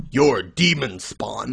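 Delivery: slow, mocking B-movie delivery; mock dramatic line. Mocking the manga's line to his co-host, slow and ham. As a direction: drag it out like cheesy dialogue. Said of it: "would say".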